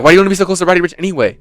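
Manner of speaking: rattled off fast; fast mock quote. Girls at the concert needling him, fast. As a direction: rush the question out like they did. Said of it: "They said it so fast".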